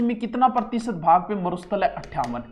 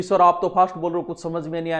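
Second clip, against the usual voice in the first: student complaining; 2 semitones lower, faster than usual. Retold or imitated. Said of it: "नीचे comment नहीं करेगा".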